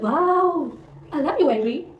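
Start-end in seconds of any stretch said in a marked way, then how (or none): 0.0-0.7 higher wow through a laugh; a laugh breaking through the awed wow. Retold or imitated. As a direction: giggle the wow out, delighted. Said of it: "I was like".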